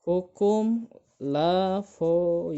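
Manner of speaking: "Lavoisier" drawn out slowly as la-vo-i-si-er; dictation-slow "Lavoisier", every written vowel sounded; read as spelled. Shown as a demonstration. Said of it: "Meskipun tulisannya Lavoisier".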